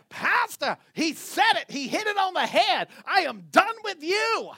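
high, emphatic acted outburst; hammed-up indignant proclamation; mock fed-up declaration. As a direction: play an exasperated spouse announcing the end. Acts out spouse declaring it's over.

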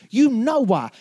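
insistent repeat. Retold or imitated. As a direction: repeat it, pushing harder.

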